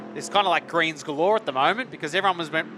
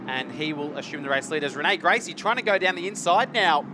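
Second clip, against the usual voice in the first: motorsport commentator; 4 semitones higher than usual. Real, not acted. Live battle for race lead.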